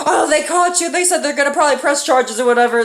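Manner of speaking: high mock fretting; freaking-out mom. Mom warning son about charges, mock panic. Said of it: "she's freaking out and shit".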